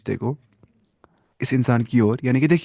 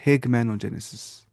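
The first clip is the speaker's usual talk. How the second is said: slow repeat; slower than usual. Shown as a demonstration. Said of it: "کیا بولتے ہیں؟".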